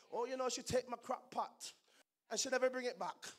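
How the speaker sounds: put-on light Jamaican accent gossip. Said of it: "practicing my Jamaican accent".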